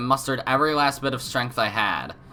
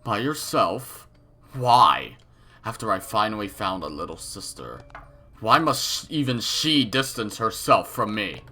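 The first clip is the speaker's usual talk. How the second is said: wounded creepy villain. Acted. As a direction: sound betrayed and unhinged. Villain hurt by her refusal.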